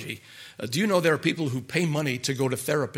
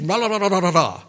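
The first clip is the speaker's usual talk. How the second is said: loud, higher taunting singsong; mocking la la; 4 semitones higher, 6 dB louder than usual. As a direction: imitate a sulky son drowning his father out. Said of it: "and he said".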